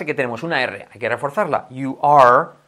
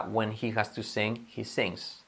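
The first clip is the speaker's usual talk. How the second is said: soft model sentence; 3 semitones lower, 11 dB quieter, slower than usual. Shown as a demonstration. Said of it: "Cuando él tiene que cantar".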